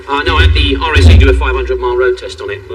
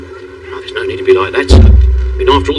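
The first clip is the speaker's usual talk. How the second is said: ordinary talk, nothing marked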